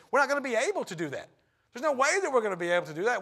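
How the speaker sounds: fast, high, flustered protest; panicked disciple. Retold or imitated. Philip protesting to Jesus, fast and flustered.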